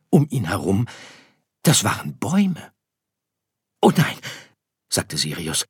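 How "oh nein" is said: high, loud cry of dismay; little star voice, alarmed. Acted. Story figure Sirius realizes. (bestürzter kleiner Stern)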